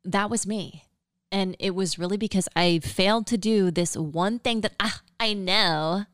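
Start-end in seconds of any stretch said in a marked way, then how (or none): 4.8-6.0 put-on valley girl. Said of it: "that's my impression of me".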